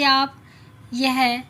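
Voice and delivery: रोते हुए ऊँची आवाज़ में; crying out. Acted. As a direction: cry out the words, hurt and upset. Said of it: "वो रोते हुए कहती है कि".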